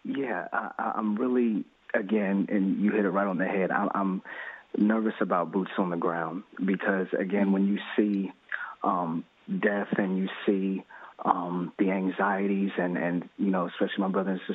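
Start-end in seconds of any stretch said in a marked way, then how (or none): 0.0-10.8 nervous caller close to tears; shaky nervous voice. Real, not acted. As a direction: voice trembling with nerves. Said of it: "I can hear that even in your voice".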